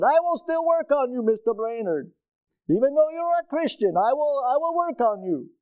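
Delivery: put-on high, playful Egyptian accent. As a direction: tease him warmly in a high Egyptian accent. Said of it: "I love his accent".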